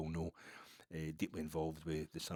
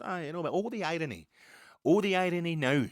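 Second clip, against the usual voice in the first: 1 mock Scots accent lingering; 10 semitones higher, 8 dB louder than usual. Still in the put-on Scots voice.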